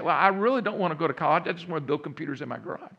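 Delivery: quick, lightly acted protest to parents; protesting son. Son tells his parents he'd rather build computers, mildly protesting. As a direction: imitate a son pushing back in a rush, tailing off.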